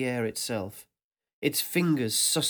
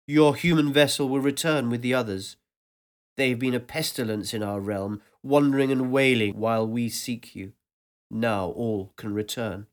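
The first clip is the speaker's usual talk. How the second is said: a louder, booming welcome that seems to fill the air; vast ancient voice; 3 dB louder than usual. Acted. Ancient voice welcomes the narrator back, louder and resonant. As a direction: speak as a presence that surrounds everything. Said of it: "this new voice".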